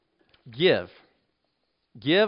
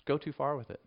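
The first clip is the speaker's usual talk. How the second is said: softer, in the preacher's own voice; quiet counter; 7 dB quieter than usual. Real, not acted. Preacher answering the world's caution to believers, quiet urging. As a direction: drop the volume and urge it quietly.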